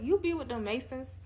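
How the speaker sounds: quoted question. Retold or imitated. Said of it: "I'm like".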